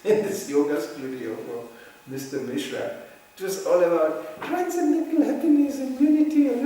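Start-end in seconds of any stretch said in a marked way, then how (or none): 3.4-6.7 laughing through the words, pitched up; can't hold back laughter mocking it; amused laughter spilling over the phrase. Real, not acted. Mocking the yoga studio's slogan.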